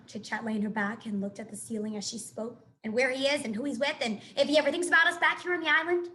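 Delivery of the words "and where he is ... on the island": chatty squirrel voice. Acted. Chit Chat's chatter.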